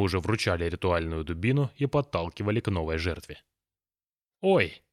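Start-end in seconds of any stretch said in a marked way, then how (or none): 4.4-4.8 a high startled yelp; dazed surprise. A narrator's reading. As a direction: caught off guard, high. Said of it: "ошалело сказала чумазая жертва". (ошеломлённо, высоко)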